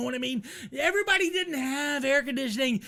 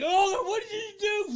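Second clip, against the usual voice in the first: alarmed friend; 8 semitones higher than usual. Retold or imitated. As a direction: sound caught off guard. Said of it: "And he fucking just like".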